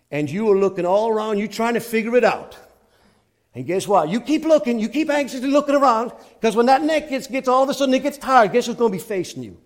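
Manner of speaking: loud preaching that climbs in pitch; forceful preaching. Real, not acted. Preacher warning anxious seekers who will face them, forceful preaching. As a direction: drive the point home to the congregation.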